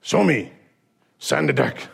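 a hint of a clipped old karate master; Miyagi. Miyagi orders Daniel to demonstrate, terse master voice. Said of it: "you hear Miyagi go".

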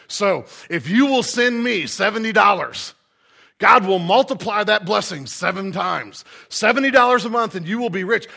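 loud, insistent televangelist imitation; TV preacher pitch. Pastor mimics TV preacher asking for seventy dollars, fervent. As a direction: sell the promise hard, like a money preacher. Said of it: "these people on T V".

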